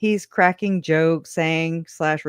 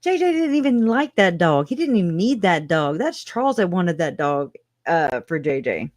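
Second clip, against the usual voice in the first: higher, mocking retelling of Summer; imitating a defensive relative, voice raised; quoting Summer; 4 semitones higher than usual. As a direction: pitch it up to quote her mockingly. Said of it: "Summer says".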